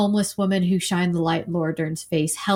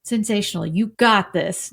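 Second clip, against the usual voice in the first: reassuring; 2 semitones higher than usual. Retold or imitated. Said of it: "she's nervous, and he says".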